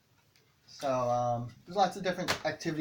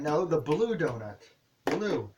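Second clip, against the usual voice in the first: "blue" repeated with a firm fall; stress on blue; slower than usual. Shown as a demonstration. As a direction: correct the child, hitting "blue". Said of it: "I'll put my hand".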